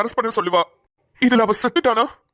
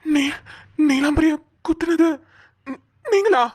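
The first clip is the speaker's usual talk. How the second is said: shocked disbelief; 5 semitones higher, slower than usual. Acted. Shocked discovery of the culprit.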